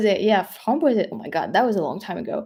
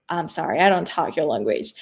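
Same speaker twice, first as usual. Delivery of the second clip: lightly put-on American drawl, a bit lower; 3 semitones lower than usual. Brushing off people asking for money on the street, American drawl. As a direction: lay on a slight American drawl. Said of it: "with the very, like, drawl".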